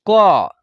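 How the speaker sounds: "क" with its inherent vowel drawn out; pronunciation demo. Shown as a demonstration. Teacher showing learners the hidden अ sound, drawn-out क. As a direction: stretch the अ sound inside क. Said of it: "जब हम उच्चारण कर रहे हैं".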